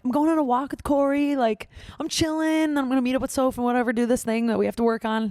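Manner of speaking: acted-out casual reply, pitched high; breezy reply. Girlfriend telling her boyfriend her plans, breezy and high. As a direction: lightly sing out the plans to a partner.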